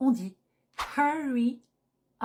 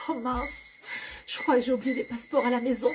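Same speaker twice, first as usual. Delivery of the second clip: flustered traveller; 2 semitones higher, faster than usual. Acted. Acted traveller forgot passports.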